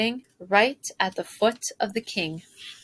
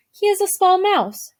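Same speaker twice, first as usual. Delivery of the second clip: high, louder, breezy brush-off; dismissive; 9 semitones higher, 4 dB louder than usual. A narrator's reading. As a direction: wave it away lightly. Antoinette dismisses the worry.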